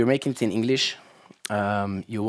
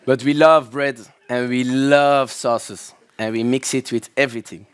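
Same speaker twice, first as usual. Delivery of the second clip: excited; 2 semitones higher, 7 dB louder than usual. Real, not acted. Enthusing about Belgian food.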